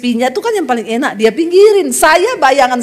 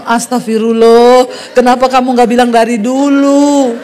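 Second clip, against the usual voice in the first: mock dismay; 3 semitones lower than usual. Retold dismayed reaction to husband.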